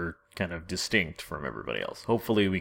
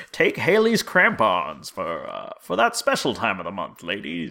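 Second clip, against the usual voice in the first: put-on hammy old-time radio ad; mock ad voice; 4 dB louder than usual. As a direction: sell it like a cheesy commercial. Mock ointment ad.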